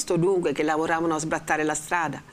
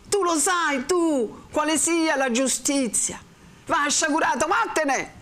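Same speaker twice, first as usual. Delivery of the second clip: much higher, slow, building to a ringing dismissal; thunderous rebuke; 8 semitones higher, slower than usual. A narrator's reading. The friar condemns Renzo's thirst for justice, thundering. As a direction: preach judgement down at him.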